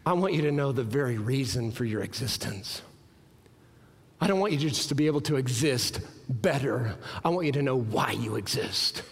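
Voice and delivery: low, restrained delivery; voicing Jesus. Jesus speaking to the paralytic man, low and earnest. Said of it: "Jesus looks at this man and says".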